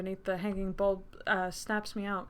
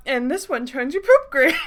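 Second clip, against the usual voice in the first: loud, laughing posh waiter; posh accent breaking into laughter; 5 semitones higher, 9 dB louder than usual. Acted. Mock waiter pushing a silly selection, posh accent with laughter. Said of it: "I've been working on that impression".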